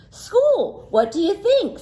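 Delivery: put-on high, know-it-all child voice; cheeky boy. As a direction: answer like a smug little boy. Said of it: "said a boy".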